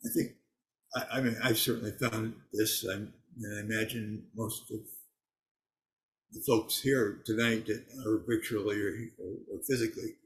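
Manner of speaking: speaking around gauze; words muffled by gauze in mouth. Real, not acted. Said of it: "I have some gauze in my mouth".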